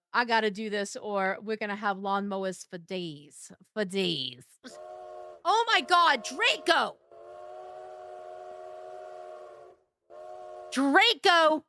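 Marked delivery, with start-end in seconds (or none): 5.4-11.6 astonished exclamation. Real, not acted. Streamer to repeat gifter, astonished exclamation. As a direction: cry out the name, overwhelmed by the gift. Reacting to repeated gifts from Draco.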